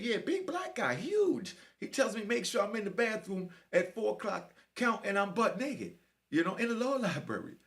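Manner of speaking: high-pitched mock squeak; squeaky little voice. Chubby inmate repeating what he was told, squeaky voice. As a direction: imitate a squeaky, earnest kid. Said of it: "his little squeaky ass voice".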